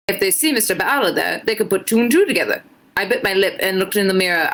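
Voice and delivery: put-on a shaky try at an Irish accent, drifting British; reading fan fiction aloud in a so-so Irish lilt; attempted Irish accent. Streamer reading fan fiction to chat, in a struggling Irish accent. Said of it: "Liz is trying her best to do an Irish accent".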